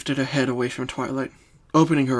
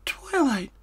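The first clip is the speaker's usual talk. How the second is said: mildly surprised; 13 semitones higher than usual. Acted. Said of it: "almost as if she was surprised".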